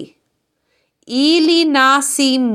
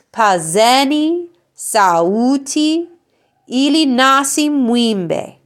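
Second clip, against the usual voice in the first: model read-through. Shown as a demonstration. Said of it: "I'm gonna say the whole thing one last time".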